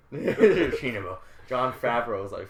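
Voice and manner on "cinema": slow, stretched-out parody of a director; hammed-up slow impression of a filmmaker; mock auteur echo. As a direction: echo the put-on accent, drawing it out. Echoes the Herzog impression.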